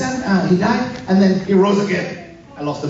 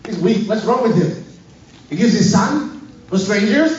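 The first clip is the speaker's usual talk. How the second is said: lightly acted challenge, rising in pitch; mild mock disbelief; incredulous objector; 3 semitones higher than usual. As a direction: act out a listener objecting. Acts objecting listener challenging him.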